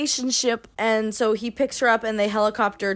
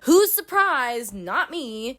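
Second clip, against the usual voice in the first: sarcastic; much slower than usual. Real, not acted. Sarcastic aside.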